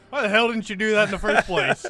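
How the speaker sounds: mock scolding. Teammate imagining Bernard scolding the newcomer, exasperated. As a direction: scold him for not doing it sooner. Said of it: "I thought he was gonna go".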